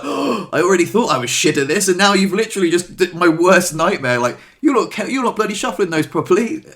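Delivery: high, loud, hammed-up distress; mock panic. Dealer reacting inwardly to a complaint, high panicked outburst. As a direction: blurt it out high and aghast.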